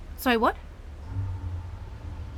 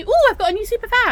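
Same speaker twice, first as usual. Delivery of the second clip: higher, louder, fast sarcastic gush; mock hero discovery; 6 semitones higher, 5 dB louder, much faster than usual. Villain sarcastically voicing the hero finding a power. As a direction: play the clueless hero for a laugh. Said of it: "It's Thursday and suddenly".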